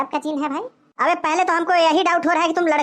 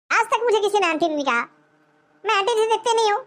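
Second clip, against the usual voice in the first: higher-pitched, protesting lady's voice; indignant woman; 4 semitones higher than usual. Acted. Gym-going woman protesting the name aunty, indignant. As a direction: plead your case as an affronted woman.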